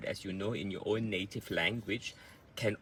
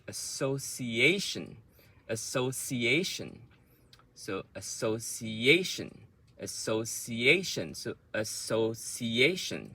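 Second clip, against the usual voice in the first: association drawn out, stressed on A before tion; measured syllables in association, falling at the end; rhythm demo. Shown as a demonstration. Teacher drills rhythm of association, slow and stressed. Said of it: "the rhythm and the word stress".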